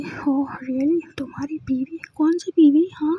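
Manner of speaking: sarcastic, half-whispered disbelief; mocking uncle. Father sneering at his daughter's wife, hushed sarcasm. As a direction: scoff at her claim under the breath. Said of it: "तो uncle कहते कि".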